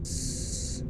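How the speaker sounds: ordinary talk, nothing marked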